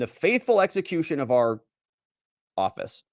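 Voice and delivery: hammed-up bureaucratic letter voice; pompous prosecutor read. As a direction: read it like a self-important prosecutor. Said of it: "they talk like this all the time".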